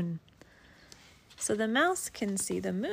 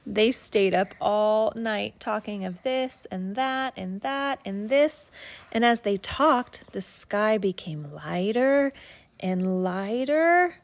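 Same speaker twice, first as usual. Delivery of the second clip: gentle bedtime story read; reading to a child. Acted. Parent reads picture book aloud.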